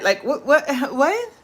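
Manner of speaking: incredulous what with a laugh; laughing disbelief. Real, not acted. Viewer talking to her audience, laughing in disbelief. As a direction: laugh it out, can't believe it.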